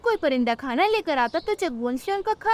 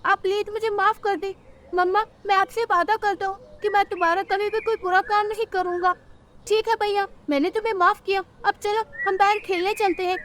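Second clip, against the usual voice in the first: put-on lively, higher character voices for the kids; cartoon child voices; 6 semitones higher than usual. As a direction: play the children in a cartoon story. Kids' cartoon dialogue. (बच्चों की cartoon आवाज़ें)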